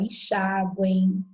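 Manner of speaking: enxágue drawn out very slowly; nasal diphthong demo. Shown as a demonstration. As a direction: stretch the nasal ending of enxágue. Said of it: "outras palavras aí de tom nasal". (enxágue com ditongo nasal, bem devagar)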